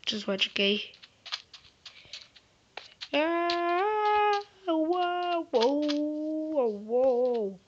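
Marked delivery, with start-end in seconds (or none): 3.1-7.6 startled whoa. Real, not acted. Startled while playing.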